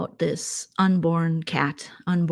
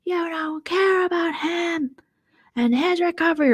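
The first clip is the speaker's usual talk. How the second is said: mocking Lumberjack; 12 semitones higher than usual. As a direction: draw it out like a scolding know-it-all. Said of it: "And then Lumberjack said".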